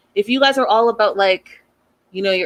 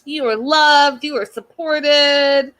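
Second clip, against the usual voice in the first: higher, slow mock-soothing quote; imitating Darcy; 5 semitones higher, slower than usual. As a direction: lay it on like a syrupy pep talk. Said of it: "Darcy comes in and says".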